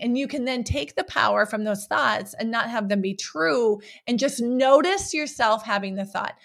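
ordinary talk, nothing marked

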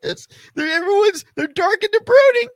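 mocking falsetto squeal; mock excited fan. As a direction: gush like an overexcited fan in falsetto. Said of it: "And I'm like".

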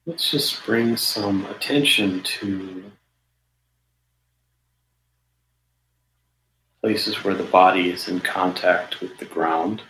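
measured meditation guidance with long pauses between phrases; guided meditation. Real, not acted. Meditation teacher settling listeners into the body, guided meditation. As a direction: guide listeners unhurriedly, leaving silence after each phrase.

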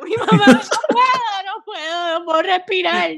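high, wailing, half-laughing cry for mom; mock panicked crying. Virginia mocking herself sick with covid, wailing. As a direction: ham up sobbing for mama, can't breathe.

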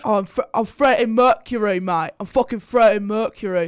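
hammed-up bad British bloke playing a famous singer; bad British accent. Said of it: "bad British accent moment".

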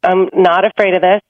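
calm, grounded reassurance; steady, unafraid. Acted. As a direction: stand firm and soothe, unhurried pauses between phrases. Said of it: "stand like a giant redwood tree".

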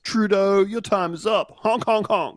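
hammed-up stern trucker then honks; silly clown. Mock trucker threat to Trudeau.

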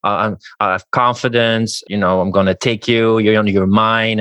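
confident seducer. Shown as a demonstration. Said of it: "that mindset of like".

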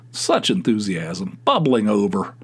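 dry mock praise; sarcastic. Real, not acted. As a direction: tease them for their lack of enthusiasm. Mocking partner's lukewarm reply.

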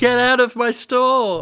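lightly voiced angry store owner; mock indignant shopkeeper. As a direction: throw them out with pretend indignation. Plays the shopkeeper throwing him out.

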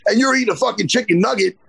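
imagined telling-off, heated at first, then settling; imagined rant. Retold or imitated. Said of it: "And I'm like".

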